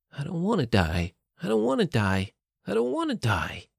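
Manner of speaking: rising desperate repeat; building panic. Acted. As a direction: panic building each time. Character's dawning realization, repeated.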